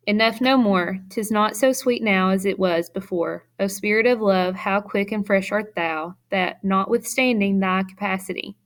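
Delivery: reading the verse aloud with its beat; poem recital. Shown as a demonstration. Teacher reads the Shakespeare passage aloud as a poem recital. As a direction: let each line sound as verse. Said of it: "you'll see how, um, iambic pentameter sounds".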